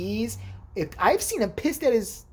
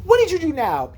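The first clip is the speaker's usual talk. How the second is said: high, loud mock scolding; raised, falling accusatory question; retold exasperation; 10 semitones higher, 7 dB louder than usual. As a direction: demand it like a fed-up friend. Retells exasperated confrontation with friend.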